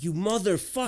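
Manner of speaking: retold outburst, half laughing; mock outrage. Retells mock-outraged retort to coworker.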